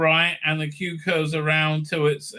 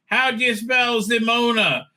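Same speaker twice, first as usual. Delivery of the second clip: mock yell; 5 semitones higher than usual. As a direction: retell a yell half-heartedly. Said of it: "explain by yelling".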